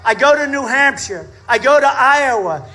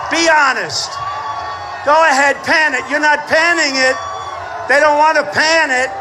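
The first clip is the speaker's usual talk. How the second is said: shouting at cameras. Real, not acted. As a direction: order the cameras round.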